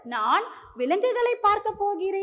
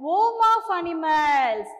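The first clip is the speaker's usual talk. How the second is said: slow teaching; much slower than usual. Shown as a demonstration. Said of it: "Jungle is the".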